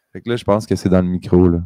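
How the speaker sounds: right in your ear; ASMR. Real, not acted. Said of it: "c'est très A S M R".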